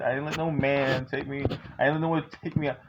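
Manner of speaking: usual speaking voice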